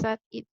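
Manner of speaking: "add it" as one word, added, ending in id; sounded -ed vowel. Shown as a demonstration. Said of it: "We're going to pronounce the, the vowel".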